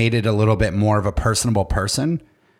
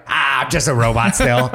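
robot reveal through laughter. Pretend. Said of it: "They were like".

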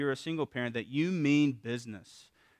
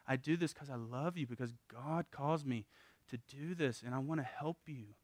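tender father; 2 semitones higher, 5 dB quieter than usual. Retold or imitated. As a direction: reassure the child after the spanking, softly. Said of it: "Tell 'em, like".

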